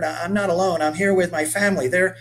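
put-on a nervous boy caught off guard; flustered kid repeating himself; stammering boy. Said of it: "Mitch stammered".

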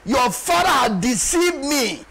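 slow, emphatic acted lament; Jacob. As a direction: draw out each grievance in a preacher's cry. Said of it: "Look at Jacob lamenting here".

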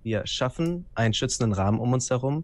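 solemn, measured prologue voice; ominous intro reading. A narrator's reading. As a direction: read it like a dark prologue. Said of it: "einleitende Worte verlesen".

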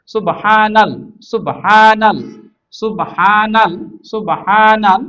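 measured, stretched reading drill; drawn-out recitation drill. Shown as a demonstration. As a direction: hold the long middle vowel of সুবহানাল. Teacher models syllable-by-syllable Quran reading.

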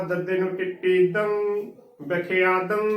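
ਵਿਖਿਆਦੰ sounded in full, ending on a nasal dang; pronunciation demo. Shown as a demonstration. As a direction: spell it, then say ਵਿਖਿਆਦੰ with a ringing -ang. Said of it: "ਉਚਾਰਨ ਕਰਨਾ ਹੈ".

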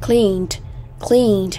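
"Cleaned" ending in a voiced D; "Cleaned" modelled as one syllable, clean-d; final D sound. Shown as a demonstration. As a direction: pronounce the -ed of "Cleaned" as a D. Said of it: "Đây là âm D".

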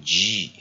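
G as a drawn-out "jee"; long vowel. Shown as a demonstration. Teacher showing the first syllable of Jesus, long-vowel G. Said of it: "E拉成长母音G".

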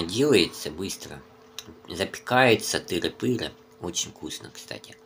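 slurping noodles mid-sentence; talking with noodles in mouth. Real, not acted. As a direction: mouth full while speaking. Seen 4: Noodles dangle from lips, spoon at mouth while he talks.

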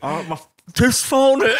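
high, loud retelling through laughter; laughing mock dismay. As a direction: imitate his tooth mishap, cracking up. Retold model losing his tooth, laughing.

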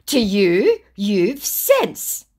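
acted angry comeback; loud scammer retort. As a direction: push each phrase out as the scammer. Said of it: "your eardrums going".

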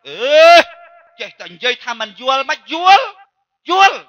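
mock-protest as the durian seller; retold indignant protest. Durian seller objects to being told she doesn't understand, mock indignant.

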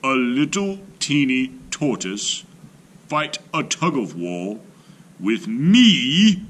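scornful, rising to a loud high scoff; mocking elephant. A narrator's reading. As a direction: laugh him off as tiny.

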